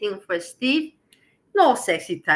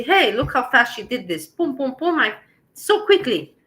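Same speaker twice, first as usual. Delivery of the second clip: excited praise; 4 semitones higher, 4 dB louder than usual. Retold or imitated. Viewers imagined praising her speed.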